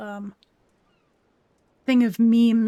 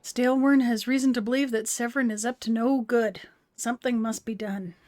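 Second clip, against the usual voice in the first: hearty gruff Scot asking a favor; a gruff clan elder; gruff old Scottish boss. Acted. Voicing game NPC dialogue.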